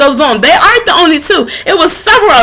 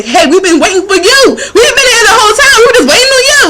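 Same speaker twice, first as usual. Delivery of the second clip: gentle calling voices; 8 semitones higher, faster than usual. Retold or imitated. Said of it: "signs around me to tell me".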